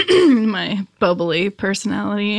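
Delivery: flat deadpan delivery; monotone. Real, not acted. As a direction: say it totally deadpan. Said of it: "in the most monotone voice ever".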